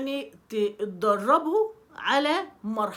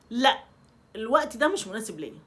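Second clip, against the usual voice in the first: calm firm refusal. Shown as a demonstration. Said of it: "انت صوتك هادي بس نبرته حازمة".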